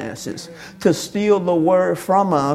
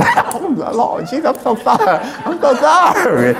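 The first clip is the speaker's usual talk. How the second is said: mock apology; 3 semitones higher than usual. Mocking congregation apologizing.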